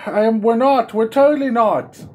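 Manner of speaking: high, loud panic; flustered high outburst; panicked admission. Real, not acted. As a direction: blurt it out in a fluster. Panics about royal visit.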